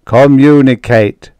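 loud, slow booming command; crashing word. A narrator's reading. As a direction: let the word crash out, drawn out. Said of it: "The crashing words had broken through".

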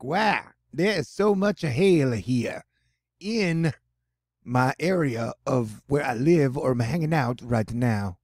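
slow, exaggerated New Jersey-New York accent; hammed-up New Yorker accent that misses the mark; bad New York accent. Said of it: "worst New Jersey, New York accent ever".

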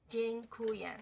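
"紧哭养" syllable by syllable, leaning on "哭"; penultimate stress, demonstrated. Shown as a demonstration. Teacher repeating for learners, deliberate stress on "哭". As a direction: spell out "紧哭养" deliberately with "哭" held. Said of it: "重音习惯在倒数第二个音节".

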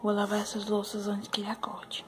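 hushed whisper; whispering before he wakes. Real, not acted. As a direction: whisper so he stays asleep. Whispering near sleeping baby.

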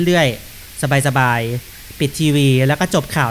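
lazy easygoing drawl; slow and relaxed. Real, not acted. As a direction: take it slow, unbothered.

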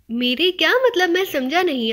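flustered disbelief at a pile of money. Acted. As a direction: blurt it out, caught off guard. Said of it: "عارف نے بوکھلائے ہوئے لہجے میں کہا".

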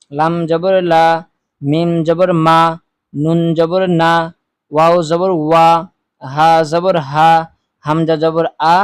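steady, measured drill voice, each syllable called out; recitation. Shown as a demonstration. Teacher leading viewers through the zabar drill, measured recitation.

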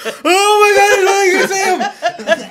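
astonished. Retold or imitated. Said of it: "you're like".

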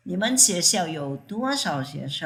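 多少 stretched and lifted in pitch; stress on 多少. Shown as a demonstration. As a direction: lean on 多少 within the question. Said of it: "เน้นที่ว่ามีเท่าไหร่".

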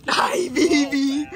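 crying. Real, not acted. Emotional greeting of puppy.

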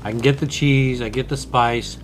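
snack at lips; talking while chewing. Real, not acted. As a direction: mouth partly full. Seen 0: Bearded man nibbles cheeto at lips; speaker unclear, mouth hidden.

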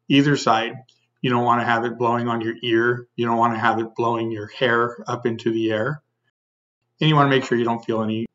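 muffled behind full-face respirator; speaking through a face mask. Real, not acted. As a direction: voice inside sealed mask. Seen 3: Full-face mask with filters worn over face throughout the labelled words.

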